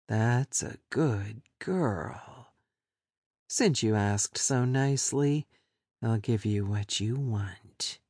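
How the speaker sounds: lightly voiced captor, pleased; smug captor. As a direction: purr it down at her, slowly.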